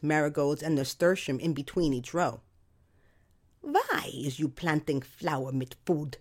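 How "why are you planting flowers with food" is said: slow, broken Eastern European English; mock the neighbor's Eastern European accent. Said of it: "in her indeterminate Eastern European accent".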